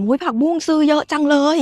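mildly amazed, imitating a vendor's question; surprised market vendor. Market vendor to a customer buying lots of greens, mock-surprised. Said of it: "แม่ค้าถาม".

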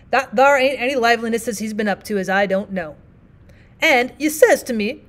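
lightly voiced plain-spoken miner, apologetic; rough miner partner. Partner pleads for Tennessee.

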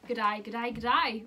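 repeated amateur Aussie greeting; practised Australian accent. Pretend. Host giving accents her best shot, mock Australian accent. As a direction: try out the Australian greeting playfully. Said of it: "I like to give it my best shot".

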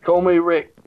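mock British accent. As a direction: put on a bit of British. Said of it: "Oh, he turns British now".

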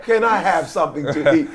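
unclear mumbling request; slurred, half-mumbled mock plea; mumbled imitation. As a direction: imitate a man mumbling for food. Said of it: "he didn't speak with that clarity".

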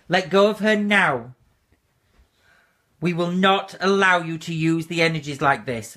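firm, loud banishing command. Real, not acted. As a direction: order the spirit out with force. Medium commanding a spirit to release her.

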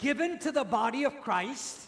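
measured prompt, left rising for the echo; evenly spaced phrase held open for repetition; repeat-after-me prompt. Shown as a demonstration. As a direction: lead the group in reciting. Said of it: "Please repeat after me".

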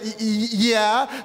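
slow, stammered reluctant admission; hesitant pause. Retold or imitated. Husband admits burning the pizza to his wife, haltingly. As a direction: stall on the first sound, then own up. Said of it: "you know, that little pause".

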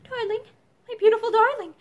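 high-pitched endearment; tender distress. A narrator's reading. Mother kneeling by her son, tenderly. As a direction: croon to a hurt child.

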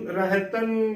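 ਰਹਿਤੰ with a nasal end and no g; correct pronunciation. Shown as a demonstration. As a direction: say ਰਹਿਤੰ as "reh-tan". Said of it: "ਬੋਲਣਾ ਹੈ".

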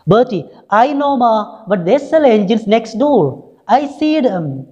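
put-on high, slow whiny boy; little boy's voice. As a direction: whine it like a small child begging mum. Boy Bertie talks back to mother.

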